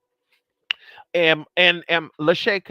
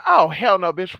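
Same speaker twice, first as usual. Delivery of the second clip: indignant outburst; 3 semitones higher, 7 dB louder than usual. Retold or imitated. Phone dead, refusing to go down.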